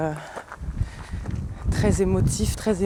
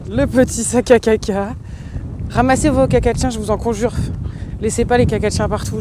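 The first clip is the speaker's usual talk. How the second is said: shouting over wind; 4 semitones higher, 3 dB louder than usual. Real, not acted. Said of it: "m'entendez bien avec, euh, le vent".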